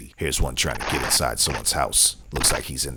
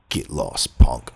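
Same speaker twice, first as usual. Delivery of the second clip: taunting; 6 dB louder, slower than usual. Acted. Narrator taunting the thief.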